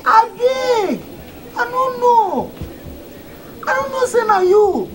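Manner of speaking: high, frightened begging; panicked pleading. Acted. Worker realising he insulted the chairman, panicked pleading.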